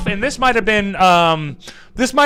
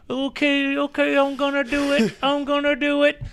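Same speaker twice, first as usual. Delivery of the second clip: mock nervous bracing; 8 semitones higher, 4 dB quieter than usual.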